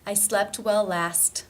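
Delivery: slow, with LAST ending on a released T; actual T. Shown as a demonstration. Teacher modelling part sentence, released T ending LAST. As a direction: release the final T in SLEPT and LAST, slowly. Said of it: "as an actual T".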